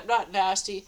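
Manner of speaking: said through a laugh; laughing at the absurd insult. Shown as a demonstration. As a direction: repeat it with a giggle on NOT. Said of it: "And then I said".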